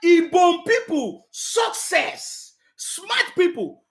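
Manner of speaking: slow, drawn-out rally-speech imitation; lightly voiced statesman praising the crowd, slowly; Baba Tinubu imitation. Vlogger mimicking Tinubu's slow rally praise. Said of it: "He said".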